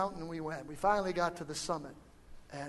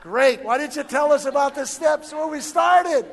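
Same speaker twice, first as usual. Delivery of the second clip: loud, high-pitched comic exasperation; exasperated mock shout; 8 semitones higher, 14 dB louder than usual. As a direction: shout it as an indignant punchline. Mock exasperated reply to escort.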